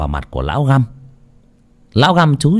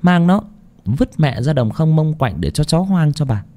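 cold order; 4 semitones higher than usual. Acted. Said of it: "sắc mặt lạnh lùng".

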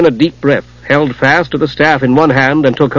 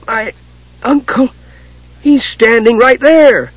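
kender voice; 10 semitones higher, slower than usual. Acted. Tas's voice in the story.

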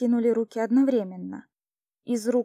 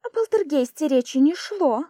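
louder, raised indignant protest; 5 semitones higher, 7 dB louder than usual. A narrator's reading. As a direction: keep pushing the complaint, louder. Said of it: "возмутилась она". (возмущённый протест, громче)

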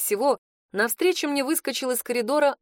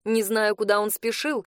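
ordinary delivery

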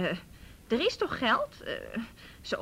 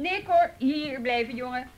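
calling out; 7 dB louder than usual. Acted. Officer stops suspect leaving.

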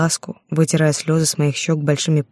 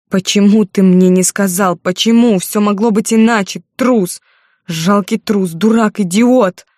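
higher and louder, breaking into furious yells, slowing down at the end; hysterical shouting; 5 semitones higher, 4 dB louder, slower than usual. Acted. Heroine screams at Artur for hiding the truth, hysterical shouting. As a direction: scream the accusations at him, losing all control. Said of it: "У меня началась истерика".

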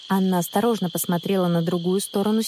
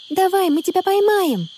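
encouraging call; 11 semitones higher, 4 dB louder than usual. A narrator's reading. Urging Anna to jump.

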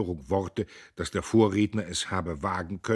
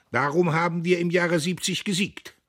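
proud cry; 10 semitones higher, 7 dB louder than usual. A narrator's reading. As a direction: declare it to the crowd. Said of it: "rief Diederich".

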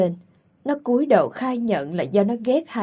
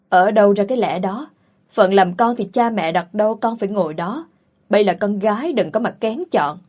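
louder, firm rebuke; stern scolding; 4 dB louder than usual. Acted. Aunt scolds Liễu for wanting love, stern and louder. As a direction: put the girl in her place, hard.

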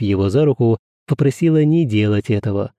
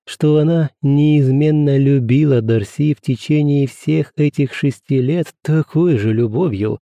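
plain reading voice

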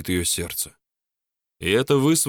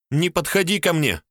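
frightened cry; 9 semitones higher than usual. A narrator's reading. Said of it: "крикнула она".

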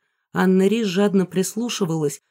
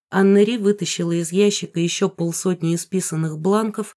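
usual speaking voice

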